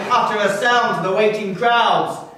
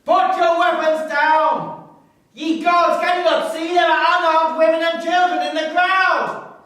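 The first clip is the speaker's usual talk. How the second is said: desperate pleading; 8 semitones higher than usual. Acted. Begs cavalry to stop attacking.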